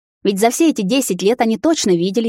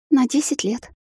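bleating stammer; 6 semitones higher than usual. A narrator's reading. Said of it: "заблеяла она, заикаясь".

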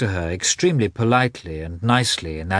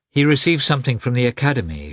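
quick, higher-pitched animated explanation; 5 semitones higher, 3 dB louder, faster than usual. Acted. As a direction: explain eagerly at a brisk pace. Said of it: "she explained animatedly".

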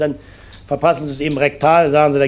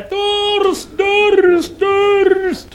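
very high shrill cry of thirst; screaming patient; much slower than usual. Acted. Patient after surgery screams for a drink, very high howl. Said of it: "da schreit er".

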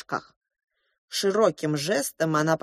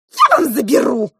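threatening; 7 semitones higher, 8 dB louder than usual. A narrator's reading. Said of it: "погрозила кулаком розовая мышь".

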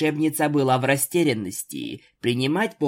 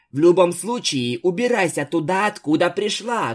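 louder, higher furious order; shouting; 5 semitones higher, 4 dB louder than usual. A narrator's reading. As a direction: throw her out at full voice. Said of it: "крикнула Твайлайт".

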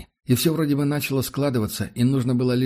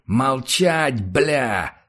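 roaring order; 2 semitones higher, much slower than usual. A narrator's reading. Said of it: "взревел Сотников".

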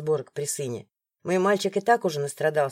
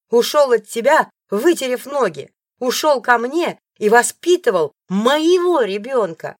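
cruel taunt; 5 semitones higher, 6 dB louder than usual. Acted. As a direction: drag out every insult. Alisa taunting heroine.

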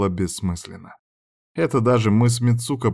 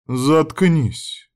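higher snapping retort; snapped; 6 semitones higher than usual. A narrator's reading. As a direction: snap back to shut her up. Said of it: "огрызнулась та". (огрызаясь)

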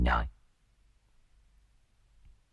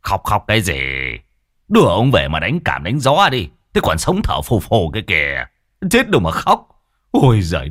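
gruff scolding; 3 semitones higher than usual. Acted. Man scolds the wife, urges hurry.

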